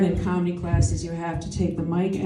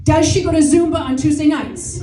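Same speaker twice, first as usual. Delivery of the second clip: senator grilling a witness; 7 semitones higher than usual. Retold or imitated. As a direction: hammer the question like a senator at a hearing. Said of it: "the senatorial hearing".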